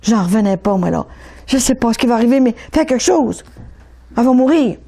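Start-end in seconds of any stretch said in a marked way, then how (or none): 1.5-4.8 retold desperate plea, raised pitch; pleading cry. Father begging for help for his starving daughter, retold pleading cry. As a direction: urge it out, pleading. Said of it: "il a tellement crié".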